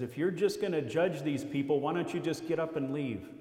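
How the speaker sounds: sarcastic. Retold or imitated. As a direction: needle them with a sarcastic question.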